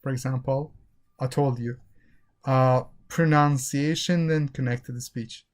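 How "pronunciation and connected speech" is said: "pronunciation and connected speech" linked as one phrase. Shown as a demonstration. Teacher showing a real spoken sentence, flowing and linked. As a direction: run "pronunciation" straight into "and". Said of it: "Don't say pronunciation and connected speech".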